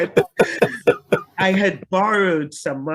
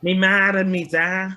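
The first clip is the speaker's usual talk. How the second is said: broad Liverpudlian accent, a bit higher and louder; 4 semitones higher, 4 dB louder than usual. Shown as a demonstration. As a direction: say it like a Scouser from Liverpool. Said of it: "That was a good Liverpudlian accent".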